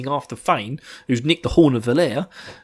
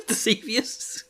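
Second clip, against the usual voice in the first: doubting own word; 9 semitones higher, 6 dB quieter, much slower than usual. Real, not acted. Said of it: "If that is a word".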